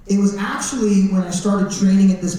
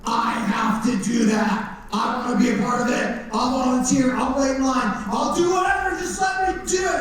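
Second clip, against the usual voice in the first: eager begging; 3 semitones higher than usual. Retold or imitated. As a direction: beg to be let in, building excitement. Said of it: "I was like".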